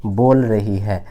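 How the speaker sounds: very slow, stretched; slow dictation. Shown as a demonstration. Teacher repeating the sentence for students, very slow. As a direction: repeat it slowly for copying. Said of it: "गौर से समझना सारे बच्चे".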